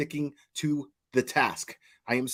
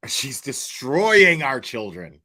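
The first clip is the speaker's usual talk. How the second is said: mocking quote; 7 dB louder, slower than usual.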